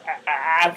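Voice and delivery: low imitated bird caws; repeated bird-like ah; grackle call. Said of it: "They go, they go".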